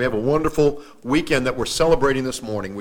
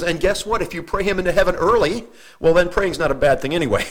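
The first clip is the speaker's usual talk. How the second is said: higher, mock-cheerful officiant; imitating officiant; 5 semitones higher than usual. Preacher mimics officiant justifying prayer for dead, higher. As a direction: play up his odd reasoning.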